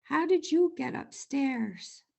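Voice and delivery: slow, kindly watchman voice. A narrator's reading. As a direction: speak slowly as a watchman. Watchman finds bear in bed.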